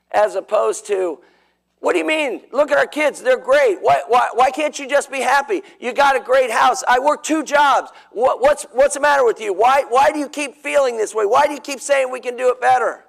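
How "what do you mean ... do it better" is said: defensive reply. Shown as a demonstration. Husband defensively arguing with his wife, exasperated. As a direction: argue back, feeling blamed. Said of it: "You see the difference in the two responses?".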